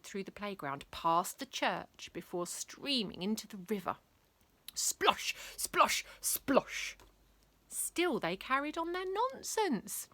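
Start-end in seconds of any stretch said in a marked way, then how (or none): 4.7-7.0 whispered splosh. Acted. River splash effects.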